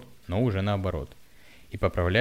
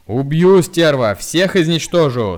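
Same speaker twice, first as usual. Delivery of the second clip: very loud, high savage roar, slowing at the end; wild bellowing; 8 semitones higher, 13 dB louder, slower than usual. A narrator's reading. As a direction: scream murder at her. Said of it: "дико орал". (дикий ор)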